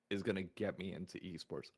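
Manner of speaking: choking on a drink; words strained by a choke. Real, not acted. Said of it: "I'm choking on a, on something".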